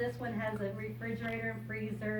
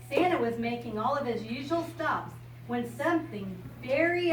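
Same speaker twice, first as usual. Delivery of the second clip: bright storybook reading voice; reading to a child. Acted. Grandmother reading a picture book to a child, bright storybook voice. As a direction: read it out like a picture book for a little one.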